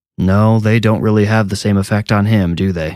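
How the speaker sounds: ordinary delivery, nothing marked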